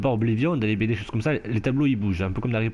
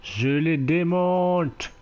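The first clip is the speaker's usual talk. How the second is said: higher, proud warrior boast; Amazon warrior voice; 6 semitones higher, slower than usual. Pretend. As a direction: pretend heroine, cocky. Playing the Amazon hero.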